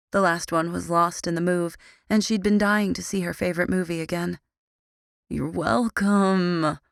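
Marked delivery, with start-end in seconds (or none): 5.3-6.8 slow, weary drawn-out groan. Acted. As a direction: drag it out groggily. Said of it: "I groaned".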